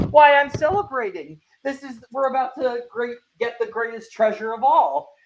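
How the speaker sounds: high, lilting, delighted protest; celebratory. Acted. Feb defending her wine drinking, celebratory. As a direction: gleefully brush off the worry. Acting out tipsy Feb's merry reply.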